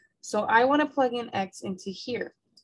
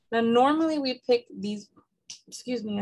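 hiccups; 3 semitones higher than usual. Real, not acted. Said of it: "I have the hiccups now".

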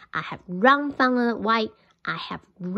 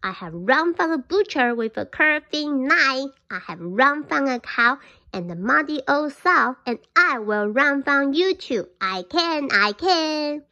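a mild mock shout from a cocky cookie; loud taunt; 4 semitones higher than usual. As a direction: yell it so the deaf fox hears. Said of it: "in a very loud voice".

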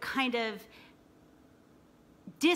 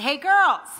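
loud call, much higher and louder; shouting across the field; 7 semitones higher, 12 dB louder than usual. Retold or imitated. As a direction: call out to the girls over the noise. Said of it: "I have a pretty loud voice".

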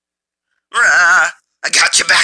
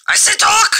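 mock interrogator; 3 dB louder than usual.

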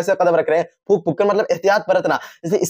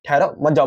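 "ठहरो", then a comma pause, then "मत जाओ"; pause after ठहरो; 3 semitones lower than usual. Shown as a demonstration. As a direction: break after ठहरो, keep मत जाओ together. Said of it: "ठहरो के बाद अगर हम लोग कॉमा लगा देंगे".

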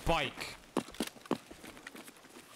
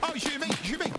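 high-pitched urgent alarm; alarmed shout; 14 semitones higher, faster than usual. Real, not acted. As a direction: call out that you're under fire, high. Under fire in a game.

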